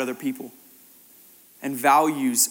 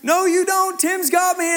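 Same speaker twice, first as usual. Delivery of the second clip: put-on high-pitched, insistent kid protest; quick, high retold objection; excited rebuff; 13 semitones higher, 5 dB louder, slower than usual. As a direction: imitate an excited girl insisting. Girl excitedly rebuffs the helpers.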